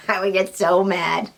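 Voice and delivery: laughing through the words; a real laugh as she repeats it. Real, not acted. Laughing as she repeats to viewers she'd get so mad.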